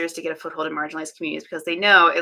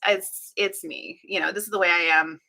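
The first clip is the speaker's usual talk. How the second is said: usual speaking voice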